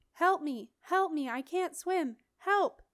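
loud, high cries for help; a drowning boy yelling for help. A narrator's reading.

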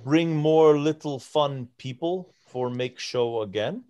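halting giant making a request in pidgin; broken Common. Acted. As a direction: ask word by word, rising at the end. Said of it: "in broken common".

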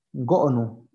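go'onu said with a clean glottal break between the o's; Zapotec pronunciation. Shown as a demonstration. Teacher showing students the word go'onu, careful demo. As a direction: pronounce go'onu slowly with a catch in the middle. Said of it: "que quiere decir ixtle".

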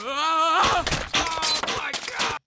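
high, loud, drawn-out scream; shocked scream. Real, not acted. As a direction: scream it in shock, stretching the words. Shock at game mishap.

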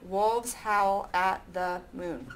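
slow counting read-back; slow syllable count. Shown as a demonstration. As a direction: read it back slowly, savoring it.

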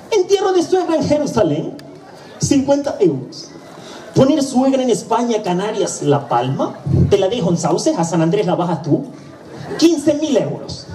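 mucho más agudo y lento, precio recitado con paciencia; funerario extranjero repitiendo. Acted. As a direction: repite la oferta muy agudo, estirando las cifras. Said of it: "Vuelvo y le repito". (funerario de Jerusalén repitiendo, voz muy aguda y lenta)

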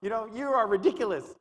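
high, loud, mocking accuser's rant; Satan shouting condemnation at the believer; Satan raging. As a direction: hammer the sinner down as Satan. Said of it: "He's like".

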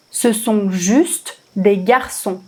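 slowed way down, each word spaced out; slow repeat. Shown as a demonstration. French teacher repeating the line slowly for the class. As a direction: say it again slowly so learners catch every word. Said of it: "teacher repeats the line slowly".

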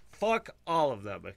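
emphatic cheering follow-up; defiant cry. Retold or imitated. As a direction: punch it as a battle cry. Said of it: "and I'm like".

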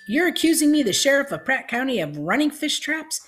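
high, loud indignant outburst; outraged squawk. A narrator's reading. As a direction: sputter it, scandalised and shrill with outrage. Outraged sheriff, eyes bulged.

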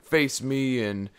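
slow, loud-ish dare; mock challenger. Mimicking the preacher challenging passersby, a lightly mocking dare. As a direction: dare the crowd in a mildly mocking tone. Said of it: "trying to call people out".

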